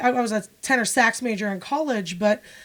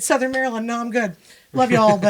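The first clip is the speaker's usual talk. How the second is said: laughing refusal; 4 dB louder than usual. Retold or imitated. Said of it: "and I said".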